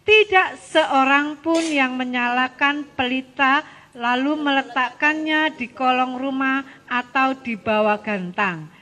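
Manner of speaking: slow, measured read-aloud; scripture reading. Real, not acted. Teacher leading children through a Bible verse, slow reading. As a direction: read the verse out slowly for all to follow.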